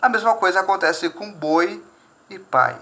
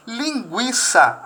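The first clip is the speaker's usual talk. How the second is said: sounded out slowly; 2 semitones higher, much slower than usual. Shown as a demonstration. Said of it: "a mesma coisa, o gui".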